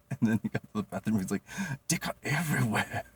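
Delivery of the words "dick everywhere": higher voice; imitating the roommate. Roommate finding clay everywhere, mock amazed.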